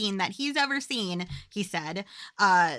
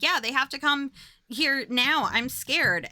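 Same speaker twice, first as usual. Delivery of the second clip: retold scared call, pitched up; freaked-out plea; 5 semitones higher than usual. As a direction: imitate a frightened caller begging for help. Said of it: "she's getting freaked out".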